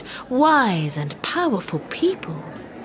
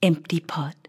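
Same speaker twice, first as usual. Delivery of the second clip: hushed title; 5 semitones lower, 3 dB quieter than usual. A narrator's reading. Storyteller hushing the audience before the tale. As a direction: whisper the title softly.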